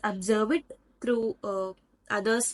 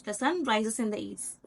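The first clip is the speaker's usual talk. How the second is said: no lift or drop towards "east"; flat intonation. Shown as a demonstration. Teacher repeating a general statement, flat intonation through "east". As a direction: keep "The sun rises in the east" level. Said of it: "There is no rising in pitch".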